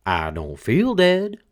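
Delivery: slow, high put-on corpse voice; dead man's voice. A narrator's reading. Dead man insisting to his widow, slow and high. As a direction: drag it out like a cheerful corpse.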